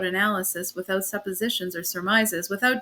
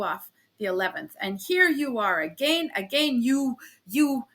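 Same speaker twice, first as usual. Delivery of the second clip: angry scolding. Acted. Officer berating the landlady.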